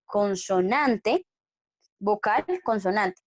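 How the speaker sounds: "consonante" drawn out slowly; slow, careful rule. Shown as a demonstration. Teacher warning students, stretching out the pattern slowly. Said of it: "tengan cuidado".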